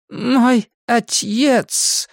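high, very slow, drawn-out «отец»; odd pronunciation of отец. A narrator's reading. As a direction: stretch «отец» as ать-ец, high and eerie. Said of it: "Слово это она произнесла как «отец»". («отец» высоко и очень протяжно, как «атьец»)

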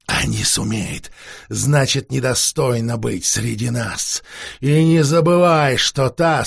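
slow, cold, commanding vampire; stern old master, drained but proud; weary vampire lord. Acted. Vampire lord lectures his servant.

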